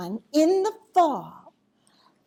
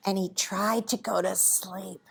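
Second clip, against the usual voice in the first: low, soft storytelling; sleepy narration; 6 semitones lower, 5 dB quieter than usual. A narrator's reading. Storyteller tells children owl is dozing, hushed. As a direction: lower and soften it as if settling down.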